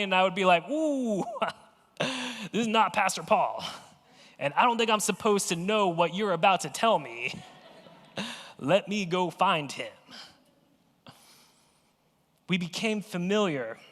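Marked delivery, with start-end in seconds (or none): 0.7-10.0 awkward laugh. Retold or imitated. Awkward teen answering caller.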